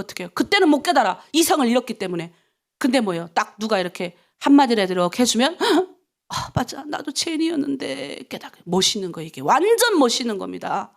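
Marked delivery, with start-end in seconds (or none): 6.3-8.3 softly owning up to guilt; remorseful realization. Acted. Believer realizing their own sin after a word, hushed remorse. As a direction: drop to a quiet self-reproach.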